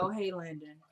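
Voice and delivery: mildly grudging retold greeting; reluctant greeting. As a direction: greet someone you hoped to ignore. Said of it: "Jeffrey kinda trying to ignore him".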